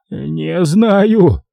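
high, shaky caretaker's «Не знаю»; trembling babble. A narrator's reading. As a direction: mumble «Не знаю» with trembling lips. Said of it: "трясущимися губами пролепетал мужик". («Не знаю» испуганно лепечет, выше голоса рассказчика)

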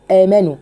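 آمنوا with a long drawn madd; slow clear demo. Shown as a demonstration. Teacher recites آمنوا for students. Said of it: "قلنا إن آمنوا هنا فيها إيه".

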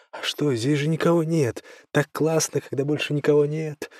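put-on high, carefree young woman; Гуля. Playful Gulya voice. (звонкий женский голос Гули)

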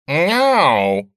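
loud high protesting meow; indignant meow. A narrator's reading. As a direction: meow in outrage. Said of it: "возмутился Василий".

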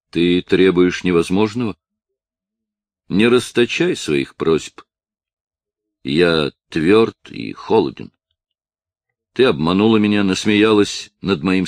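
stern rejection. A narrator's reading. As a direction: push her away with cold anger. Claude angrily rejecting Adel.

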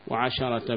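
وعشرة said as waʕashara with open a on the shin; fatha on the shin. Shown as a demonstration. Teacher demonstrates the fatha reading to students. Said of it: "بالفتح".

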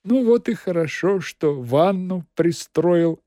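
approving. Acted. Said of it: "одобрительно сказал Азазелла".

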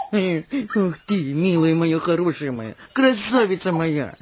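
low, tender crooning; murmured endearments to a darling pet; fond cooing. Acted. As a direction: coo dotingly, low in the throat. Mother cooing fondly over her pet.

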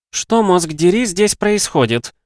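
loud, high and slow; outraged demand. Acted. Doctor bursting into the ward, loud and slow outrage. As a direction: drag out the angry question.

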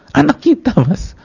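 high-pitched tearful cry to a husband; hammed-up wailing over the child; hysterical mock wailing. Wife interrupting her husband's question about their child, mock wailing. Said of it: "saya nangis depan dia".

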